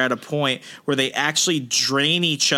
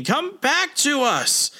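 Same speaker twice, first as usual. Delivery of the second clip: mild mock scream; 11 semitones higher, slower than usual. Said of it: "who is still screaming".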